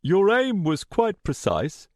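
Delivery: lightly lifted chatty villain; conversational tone. A narrator's reading. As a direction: toss off the accusation casually. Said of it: "Richard said in a conversational tone".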